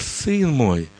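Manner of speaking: gentle, soothing voice of a loving father; tender fatherly voice. Acted. God answers his frightened son, tender and soothing. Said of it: "такой ласковый голос".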